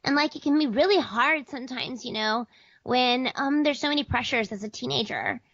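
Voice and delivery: put-on earnest teen character voice; older kid. Shown as a demonstration. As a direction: play a teenager confiding about pressure. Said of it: "older kids as well".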